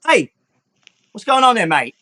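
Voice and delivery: Hermes startled at the grab; surprised. Acted. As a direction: caught off guard. Hermes surprised at being grabbed.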